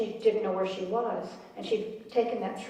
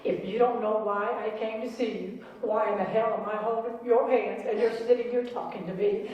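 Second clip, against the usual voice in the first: mock indignant comeback; sassy retort. Mother cheekily answering the doctor's question, sassy. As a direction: snap back with cheeky sass. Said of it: "she smiled, and she said".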